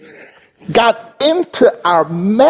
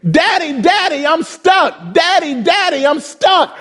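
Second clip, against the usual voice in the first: higher, mock whiny child calling out; child crying for daddy; 5 semitones higher than usual. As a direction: play the stuck little boy calling his dad. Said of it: "he's screaming".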